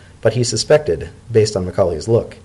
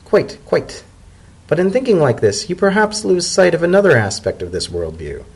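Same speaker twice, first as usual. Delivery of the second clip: higher, lilting elder mare; zebra elder; 5 semitones higher than usual. Acted. Macaulay explaining worth of words, higher and lilting. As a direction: wise old mare making her point. Macaulay continues her point.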